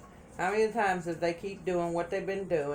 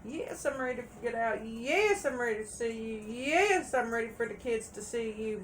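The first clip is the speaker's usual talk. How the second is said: imitating eager promises; 5 semitones higher than usual. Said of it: "After being told that".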